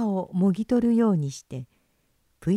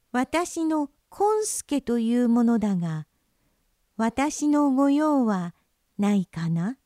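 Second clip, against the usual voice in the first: put-on high, slow sly child; a little trickster offering help; child fox voice; 5 semitones higher, slower than usual.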